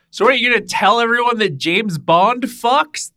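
high, loud mock scandal voice; mock outrage. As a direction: gasp like it's a big scandal. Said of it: "I was just like".

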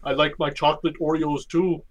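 slow, lightly voiced commanding old man; slow, understated Carl Lumbly imitation; Carl Lumbly impression. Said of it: "That's my best Carl Lumbly voice".

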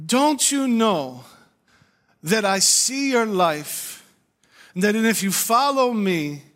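high, loud, slow prophetic proclamation; prophet's word. Retold or imitated. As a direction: deliver the prophecy slowly and high like the visiting prophet. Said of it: "And he says to me".

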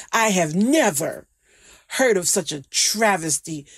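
laughing through the words; can't hold back the laugh; breaking into real laughter; laughing in disbelief. Real, not acted.

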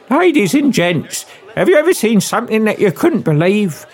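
Cockney magician's assistant announcing the trick; Cockney showwoman. Acted. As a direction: work the crowd like a music-hall Cockney. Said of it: "young female Cockney accent".

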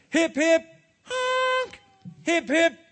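loud hip hip cheer; shouting cheer. Acted. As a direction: lead the crowd. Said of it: "shouted Mister Krabs".

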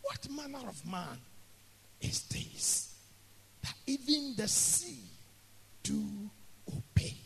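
hushed, halting quote with long pauses; disciples' wonder. Retold or imitated. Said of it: "So the disciples wondered".

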